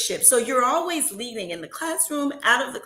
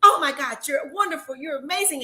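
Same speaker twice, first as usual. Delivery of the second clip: excited gushing; 5 semitones higher, 4 dB louder than usual. Retold or imitated. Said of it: "and I'm like".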